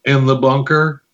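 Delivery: low, slow, close to the mic. Pretend. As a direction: lean in and purr it low and slow. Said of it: "I'm gonna have to talk like this".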